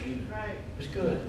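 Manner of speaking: hushed, drawn-out "It was good"; slow soft fade. Retold or imitated. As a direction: let "good" fade away slowly. Final fading repetition.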